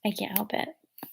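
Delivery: whispered aside. Real, not acted. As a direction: breathe it out as a whisper. Yawning, aside to herself.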